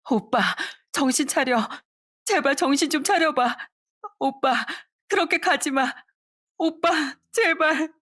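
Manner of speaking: high, tearful pleading with a sob at the end; crying sister. Acted. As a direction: beg your brother to wake up, near tears. Sister crying over dying brother. (죽어가는 오빠를 붙잡고 우는 여동생)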